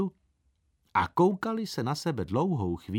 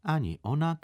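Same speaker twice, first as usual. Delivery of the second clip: even thinner voice; 2 semitones higher than usual. Acted. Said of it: "teta pravila ještě tenčím hlasem".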